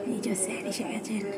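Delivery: quiet, slow aside to camera; hushed. Real, not acted. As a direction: keep it low, tutor is here. Tutor has arrived in the house. (নিচু গলায়, আস্তে)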